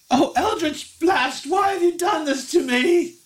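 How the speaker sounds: very high melodramatic lament; very upset Effie. Acted. Effie blames her spell for her loss, high wailing voice. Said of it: "She's very upset".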